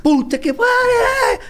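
screamed curse, high and slow; stretched-out scream of disbelief; shocked shout. Retold or imitated. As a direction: yell it out in total shock.

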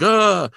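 a high, loud shocked groan; horrified ugh. Retold or imitated. Man seeing his face torn in the mirror, a high loud groan. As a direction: recoil from the face in the mirror with a yelp. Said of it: "And he's like".

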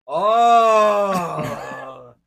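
long, loud "oh" of hype; loud drawn-out cry. Real, not acted. Co-host hearing there is a PC gaming show, loud cry. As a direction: let out a big drawn-out "ohhh".

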